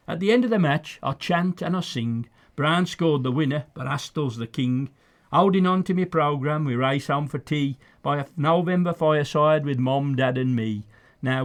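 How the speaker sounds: lilting, rhythmic verse reading; poem recitation. Acted. Fan reading his tribute poem to his dad, recited rhythmically. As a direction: recite it with a sing-song beat.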